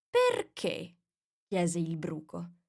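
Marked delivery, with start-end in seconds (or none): 0.1-1.0 much higher, drawn-out odd voice; lazy caterpillar. A narrator's reading. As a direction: ask it idly, half bored. Caterpillar asks curtly.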